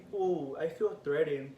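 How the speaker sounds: slow, drawn-out mock alarm; mimicking the cop. Cop reacting to teen stepping back, mock threatened. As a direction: draw out the "ooh" as a put-on cop reaction. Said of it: "the cop went like this".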